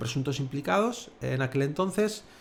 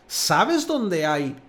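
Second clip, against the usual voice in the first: "sabes" slow, with the force on SA-; emphatic SA-bes; stress on first syllable; 4 dB louder, much slower than usual. Shown as a demonstration. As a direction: punch the start of "sabes". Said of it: "la fuerza la está poniendo en la primera sílaba".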